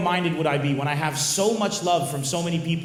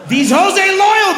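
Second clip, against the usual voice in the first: much higher and louder, slow chant; hype quote; 14 semitones higher, 9 dB louder, slower than usual. Pretend. Comic chanting a catchphrase back at a fan. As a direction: belt it like a rapper's hook.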